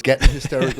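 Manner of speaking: loud mock voice break. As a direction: imitate a crack on "hysterical". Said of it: "it's the way his voice breaks, though".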